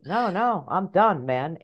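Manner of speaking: small high inner voice, dropping at the end; high-pitched little protest, easing down; tiny little voice. Acted. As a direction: play the tiny voice in the head. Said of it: "the tiny little voice said".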